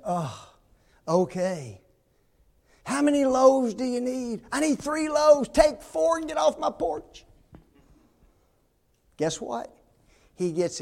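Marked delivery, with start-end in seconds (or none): 0.1-1.8 low, soft, weary concession; resigned giving in. Acted. Neighbor finally gives in to man, resigned. 2.9-7.3 high, irritated back-and-forth; exasperated giving in. Acted. Neighbor handing over bread to pest, exasperated. Grudging neighbor and pleading man haggle.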